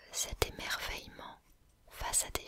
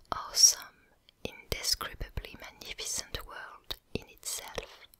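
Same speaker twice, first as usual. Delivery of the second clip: whispered English with a French accent; hushed French-accented English reading. Real, not acted. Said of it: "désolé pour mon accent anglais".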